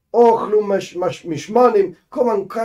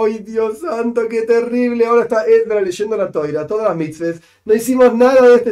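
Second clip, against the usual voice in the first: mock lament; 4 semitones higher than usual. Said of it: "estaban todos llorando".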